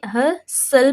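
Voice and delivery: "हसल" slowly, no T sound; silent T. Shown as a demonstration. Teacher explaining what she just read, silent T in "हसल". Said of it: "टी इसमें मैंने silent कर दिया".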